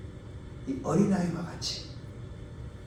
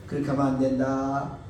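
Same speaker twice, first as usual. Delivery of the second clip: gentle warning; 3 semitones lower than usual. Retold or imitated. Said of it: "맨 처음엔 좋은 말로 하죠".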